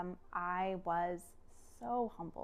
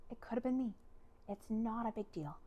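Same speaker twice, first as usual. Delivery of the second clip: soft, gentle comforting; lightly voiced forgiving husband; merciful reassurance; 5 dB quieter than usual. Husband telling wife it could have been him, gentle reassurance. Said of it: "just mercy".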